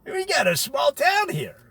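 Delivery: rising to a shout at the end; shocked exclamation. Retold or imitated. Veterans back home, yelling in disbelief at the small town. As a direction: blurt it out, then holler the last line. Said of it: "and they go".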